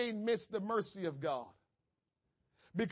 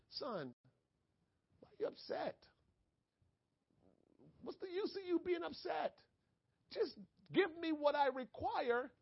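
God speaking gently; 8 semitones higher than usual. Acted. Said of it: "God said to Cain".

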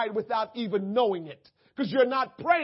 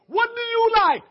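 high, loud mock question; voicing the prince; 11 semitones higher, 8 dB louder than usual. Preacher voicing the prince's question from the movie, high. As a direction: ask it like the prince in the film. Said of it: "Coming to America".

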